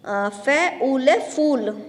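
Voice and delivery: फूल with the ऊ stretched long, spelled out slowly; drawn-out long vowel. Shown as a demonstration. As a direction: spell फै ऊ ल, then hold the ऊ in फूल. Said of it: "इसको थोड़ा खींच के बोलते हैं". (फूल में ऊ को खींचकर धीरे बोलना)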